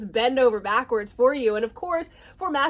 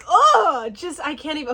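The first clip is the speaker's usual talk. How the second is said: high, loud exasperated oh; can barely contain it; overwhelmed; 3 semitones higher, 5 dB louder than usual. Real, not acted. Overwhelmed by the scene.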